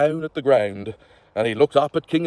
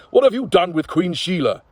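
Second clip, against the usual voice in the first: demanding king; 5 semitones higher than usual. Acted. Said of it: "Hurler demanded".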